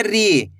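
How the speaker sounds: री with a long, stretched ee; री, held long for learners; drawn-out long vowel. Shown as a demonstration. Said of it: "इसी तरीके से".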